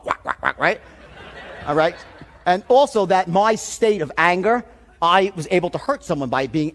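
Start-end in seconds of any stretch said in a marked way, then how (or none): 0.0-0.6 low imitated quacks; quick quacks in passing, pitched down; duck quacking. Speaker calling the agent a duck, low quacking. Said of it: "she's a freaking duck".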